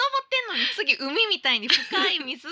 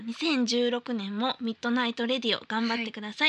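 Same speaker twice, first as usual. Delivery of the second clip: letter reading; 4 semitones lower than usual. Acted. Host reading listener's New Year mail on air, formal read.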